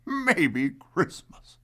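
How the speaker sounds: slow, musing, rising on Maybe; drawn out as a new idea dawns; wondering thought. Acted. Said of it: "he thought".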